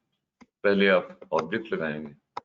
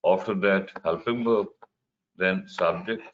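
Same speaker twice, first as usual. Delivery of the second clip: slow dictation; much slower than usual. Shown as a demonstration. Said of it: "اگر W H word ہے تو سب سے شروع میں".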